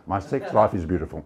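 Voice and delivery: lightly imitated Eastern European old lady; Eastern European accent. Old lady surprising the lecturer with a boast, light Eastern European accent. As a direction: deliver the punchline in her Eastern European accent. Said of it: "so I'll do the accent".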